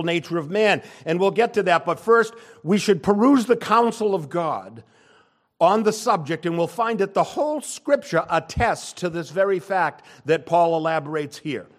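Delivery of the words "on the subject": ordinary delivery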